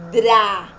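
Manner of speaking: DRA loud, with D and R both heard; both consonants sounded. Shown as a demonstration. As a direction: punch out the cluster in DRA. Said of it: "eu escuto o som do D e do R". (DRA forte, com D e R bem pronunciados)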